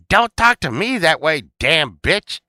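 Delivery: high, loud comic retort; mock indignation. Azura telling Steve off in retold show, mock indignation. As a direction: fire it back in mock offence.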